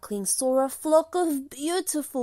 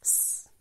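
soft drawn-out hiss like a cat; quiet snake-like cat hiss; 11 dB quieter than usual. A narrator's reading. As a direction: hiss at the duckling. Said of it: "the cat hissed".

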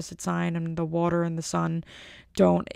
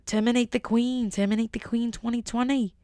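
hammed-up political slogan in a light British accent; mock British campaigner; 4 semitones higher than usual. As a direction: chant it like a mock British activist. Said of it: "I'm not gonna be that vocal about it".

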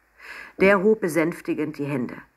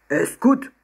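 penguin piping up; 7 semitones higher, 5 dB louder than usual. A narrator's reading. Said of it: "tönte es kurz darauf wieder".

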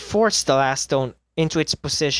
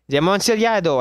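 the name lifted higher and louder; hopeful cry; 6 semitones higher, 4 dB louder, faster than usual. Acted. Trapped man clutching at the wine as hope. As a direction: grab at the word Amontillado.

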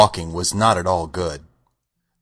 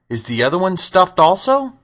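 high-pitched wondering question; mild astonishment, voice rising; curious lion; 9 semitones higher, 4 dB louder than usual. A narrator's reading. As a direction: ask with a touch of amazement. Astonished lion asks about companion.

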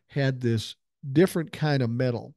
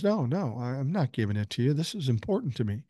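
retold protest; 3 dB quieter than usual. German prisoner refusing to hand over his medal, retold protest.

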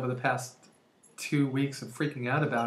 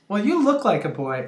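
lightly voiced little boy, pitched up; a hint of kid voice, higher; 5 semitones higher, 4 dB louder than usual. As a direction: imitate a small child insisting. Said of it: "Little boy named Tyler".

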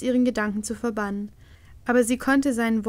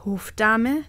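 abrupt interruption; 3 dB louder than usual. Acted. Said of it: "unterbrach ihn die Königin abrupt".

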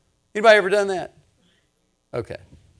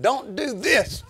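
high, slow, raised-voice warning, reenacted; exasperated warning; 10 semitones higher, 6 dB louder, slower than usual. Grandpa recalling his warning to grandkids, acted exasperated shout. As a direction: draw out each word of the warning, high and loud.

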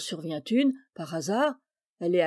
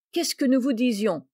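higher and louder, gloating in triumph; triumphant cry; 4 semitones higher, 5 dB louder than usual. Acted. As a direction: crow it like you were proven right. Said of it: "avec un accent de triomphe".

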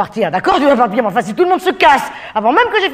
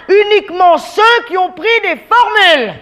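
exasperated demand; 6 semitones higher than usual. Acted. Exasperated waiter demanding raised hands.

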